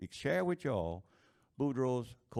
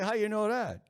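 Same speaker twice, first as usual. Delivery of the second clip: indignant surprise; 11 semitones higher, 7 dB louder than usual. Acted. Drunk Boudreaux surprised at wife.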